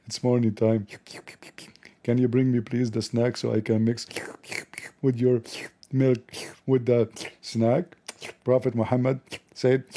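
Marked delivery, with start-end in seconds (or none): 0.1-0.9 husky early-morning whisper. Acted. Wife whispering to husband. 2.0-8.0 half-whispered wife's request; wife murmuring a request in bed. Acted. Wife voiced asking husband.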